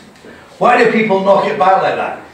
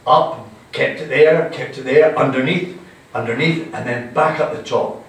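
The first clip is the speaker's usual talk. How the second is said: slow, lower walk-through of the sip; slow demonstration; 5 semitones lower than usual. Shown as a demonstration. Host talking the class through holding the whisky, slow and low. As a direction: guide the tasting step by step, slowly. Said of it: "keep it in your mouth for twenty-two seconds".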